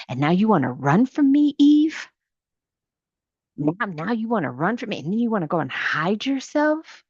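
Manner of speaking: put-on a hurt father catching his child hiding; God calling to Eve. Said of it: "then the Lord said to Moses".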